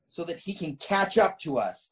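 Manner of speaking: high, incredulous mock yell; hammed-up indignant shout back. A narrator's reading. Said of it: "I yell back".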